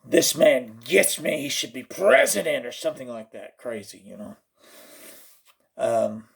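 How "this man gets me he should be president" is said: emphatic, drawn-out mock endorsement; hammed-up true believer; fervent fan. Superfan endorsing the meme maker, mock fervour. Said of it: "just go".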